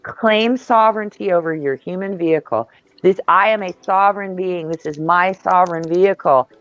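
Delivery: steady, firm recited prayer; prayer declaration. Shown as a demonstration. Reciting a protective prayer to listeners, firm and steady. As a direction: declare each line like a vow. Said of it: "a very strong prayer".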